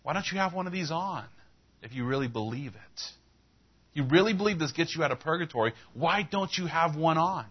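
high, pressing questions; insistent challenge. Retold or imitated. Preacher confronting the clerk over her belief, insistent.

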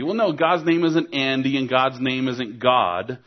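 ordinary delivery

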